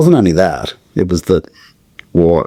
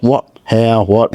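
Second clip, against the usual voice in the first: high, shocked stammering questions; hearing the news of a death, stunned; stunned disbelief; 5 semitones higher, much slower than usual. Retold or imitated. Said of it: "I was like".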